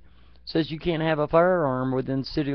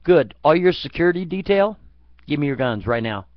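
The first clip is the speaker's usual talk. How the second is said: stern demand; 5 dB louder than usual. Retold or imitated. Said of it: "I'm like".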